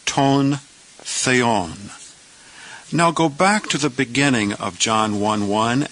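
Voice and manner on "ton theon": "ton, theon" said as tone, thay-on; Greek pronunciation. Shown as a demonstration. Teacher pronouncing two Greek words for the class, careful. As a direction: model "ton" then "theon", each syllable clear. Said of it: "Let's pronounce those two words together".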